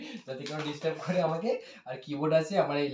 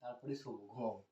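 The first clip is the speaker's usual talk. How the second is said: weary pleading; 2 semitones lower, 10 dB quieter than usual. Real, not acted. Begging to be left alone.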